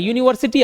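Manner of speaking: यूनिवर्सिटी opening on a "yoo" sound; starts with Y-U. Shown as a demonstration. Teacher showing the first sound, यूनिवर्सिटी said with initial "yoo". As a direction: begin यूनिवर्सिटी with a consonant Y. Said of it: "वाई यू से start होता है".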